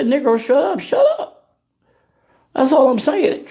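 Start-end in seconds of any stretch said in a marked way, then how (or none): 0.0-1.3 laughing brush-off. Retold or imitated. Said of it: "How about just say".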